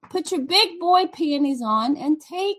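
loud, blunt scolding to the viewers. Real, not acted. Wife scolding viewers who complain about the yelling, loud. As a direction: tell them to toughen up, loud.

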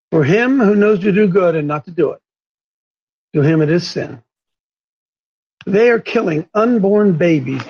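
real slow. Real, not acted. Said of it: "We'll say it again real slow".

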